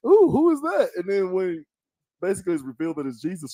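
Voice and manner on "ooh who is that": very high gushing voice; daughter swooning. Retold or imitated. Mimicking the daughter swooning over Jesus, high gushing voice. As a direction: gush in a high girly tone. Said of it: "But she was like".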